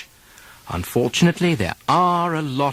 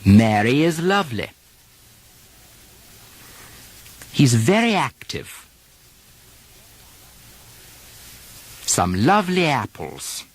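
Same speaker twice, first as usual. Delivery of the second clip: British RP model sentences, Y half softened. Shown as a demonstration. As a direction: model each line in British RP. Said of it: "and you repeat these".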